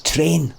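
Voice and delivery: "train" with a pure long e; "train" with no glide in the vowel; proper pronunciation. Shown as a demonstration. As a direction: say "train" as a clean Scottish "trehn". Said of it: "actually is saying it properly".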